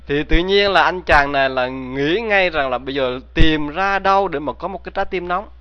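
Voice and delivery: ordinary delivery, nothing marked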